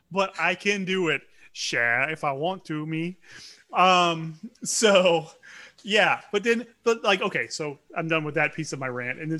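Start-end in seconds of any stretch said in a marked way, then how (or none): 0.1-3.2 easy, understated Cajun accent. Shown as a demonstration. Parent telling sons the accent can be switched on, Cajun accent. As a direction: turn on a light Cajun lilt. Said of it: "I can turn it on and off".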